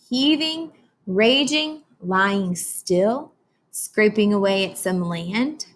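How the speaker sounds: put-on slow, expressive read-aloud for children; storybook reading. Teacher reading Atlantic to her class, slow storybook voice. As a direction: read it slowly like a picture book to kids.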